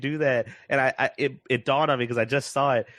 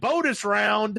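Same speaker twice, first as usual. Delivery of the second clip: higher, slow, drawn-out "Bonus round"; gleeful robot announcer; 8 semitones higher, slower than usual. Retold or imitated. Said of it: "He's like".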